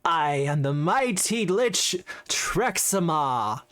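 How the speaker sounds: slow, grand self-announcement; sneering gloating dark voice. Acted. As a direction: boast it like a mighty lord. Lich declares himself.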